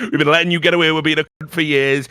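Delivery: imitating an angry scolding; mock telling-off. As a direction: rattle it off like a furious boss. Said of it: "they're absolutely going off".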